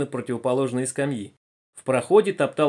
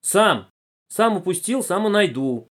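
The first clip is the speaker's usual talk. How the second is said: tearful stubbornness; 6 semitones higher, 4 dB louder, slower than usual. A narrator's reading. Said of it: "Боря всхлипнул под лавкой".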